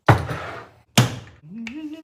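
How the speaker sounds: ordinary talk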